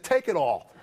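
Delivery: high-pitched rant, laughing through it; retold angry outburst. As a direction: hurl it at the auditor, half laughing. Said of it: "this is when I lost it".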